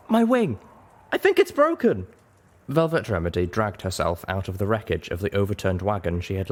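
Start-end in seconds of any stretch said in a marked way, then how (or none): 0.1-2.1 high, loud pained panic; panicked cry. A narrator's reading. Injured griffin calling to the group about its wing, panicked. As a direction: yell it in pain and fear. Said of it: "cried out".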